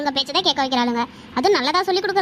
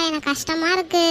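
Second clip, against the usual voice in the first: mild tearful confession. Acted. Upset friend confiding in her friend, tearful. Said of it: "அழாதடி".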